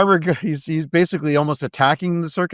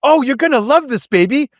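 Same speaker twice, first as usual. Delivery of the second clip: smooth charmer; 10 semitones higher, 4 dB louder than usual. Acted. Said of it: "when they go in".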